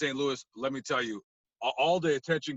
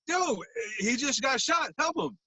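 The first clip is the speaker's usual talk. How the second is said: urgent plea; 9 semitones higher than usual. Retold or imitated. Urging bystanders to help.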